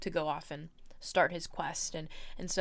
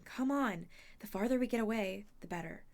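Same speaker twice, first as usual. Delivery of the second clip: urgent; 3 semitones higher than usual. Acted. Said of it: "Annabeth kept pulling us along, saying".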